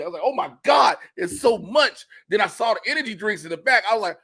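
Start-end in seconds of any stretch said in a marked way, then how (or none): 0.2-2.1 high, overwhelmed exclamation; losing it. Retold or imitated. Comedian reliving the food aisles, high overwhelmed outburst. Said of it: "I was losing it".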